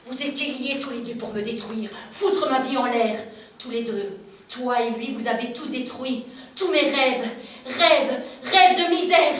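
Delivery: screaming in rage, voice cracking high; furious screaming. Acted. Mother screaming at her son, full rage. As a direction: hurl it at him with all the hatred you have.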